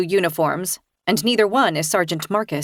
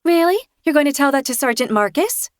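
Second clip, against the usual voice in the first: scoffing; 6 semitones higher than usual. A narrator's reading. Mocking the threat.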